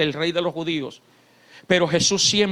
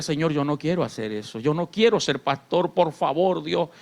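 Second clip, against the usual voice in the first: retold tearful plea; 5 semitones lower, 3 dB quieter than usual. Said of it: "yo lloraba y le decía".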